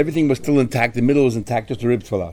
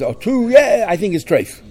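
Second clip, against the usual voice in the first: casual, easygoing answer, pitched up; nice, calm answer; 8 semitones higher than usual. Acted. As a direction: answer mildly, as if unbothered. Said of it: "If he answers us nicely and calmly".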